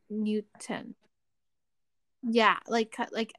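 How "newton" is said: Newton with a fully released t; careful Newton. Shown as a demonstration. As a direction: say Newton slowly, as "NOO-ten". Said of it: "I see Newton so wrong".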